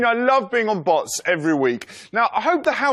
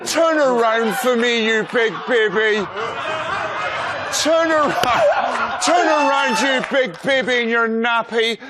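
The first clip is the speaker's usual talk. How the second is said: mock wooing voice; 3 semitones higher than usual. Wooing Andy in baby talk.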